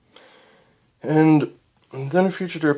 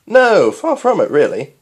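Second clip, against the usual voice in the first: louder, slower laughing no; amused reassurance; 8 semitones higher, 10 dB louder, slower than usual. Acted. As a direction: laugh her fear away. Doctor amused.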